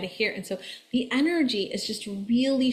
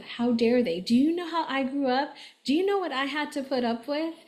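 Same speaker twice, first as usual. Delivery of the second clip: rising, higher, hurt and offended; voicing a father's wounded pride, building up; mock indignation; 5 semitones higher than usual. Father upset his bored daughters don't appreciate things, mock indignant.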